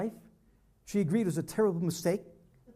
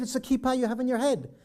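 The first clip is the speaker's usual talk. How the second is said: flustered; 4 semitones higher, 3 dB louder than usual. Retold or imitated. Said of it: "He got flustered".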